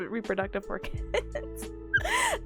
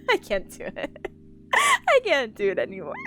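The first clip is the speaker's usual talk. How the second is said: dropping the cute anime voice; lightly voiced anime girl giving up; cute anime streamer. Shown as a demonstration. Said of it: "sound like a cute anime girl".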